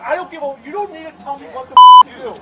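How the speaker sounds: fast angry yelling; shouting at trespasser. Real, not acted. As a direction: snap back in fury. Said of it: "Why are you yelling?".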